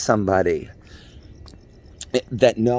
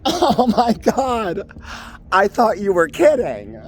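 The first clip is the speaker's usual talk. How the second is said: uptight Beverly Hills snob; 11 semitones higher than usual. Acted. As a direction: play a snooty Beverly Hills queen. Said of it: "I'm this uptight Beverly Hills Queenie bitch".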